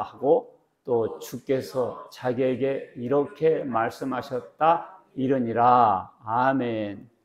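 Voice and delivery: slow, measured Bible reading to the congregation; preacher reading the Gospel aloud before the sermon; scripture reading. Acted. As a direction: read the passage solemnly, word by word.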